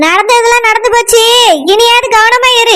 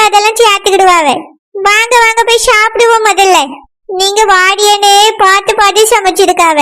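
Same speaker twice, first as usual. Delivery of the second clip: grandmother voice; 3 semitones lower than usual. Acted. Grandmother explains her lie.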